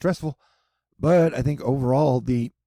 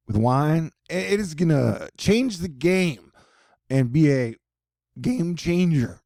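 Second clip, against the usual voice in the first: sarcastic; 3 semitones higher than usual. Pretend. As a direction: brag it, tongue in cheek. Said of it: "That's sarcasm".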